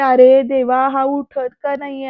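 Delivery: a loud cry to God, then a worried drop; anguished cry. Retold or imitated. A hint of Ambika's panic over unconscious Alok, loud then worried. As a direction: cry out in helpless worry. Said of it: "असं म्हणत तळमळ".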